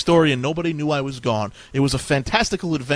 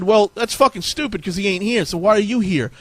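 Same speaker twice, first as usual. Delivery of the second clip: angry dwarf; 5 semitones higher, 3 dB louder than usual. Acted. Angry dwarf scolds narrator.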